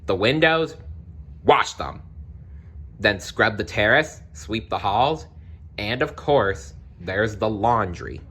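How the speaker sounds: a hint of a cold stepmother ordering chores; bossy stepmother. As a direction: rattle off the chores like a lightly voiced stern stepmother.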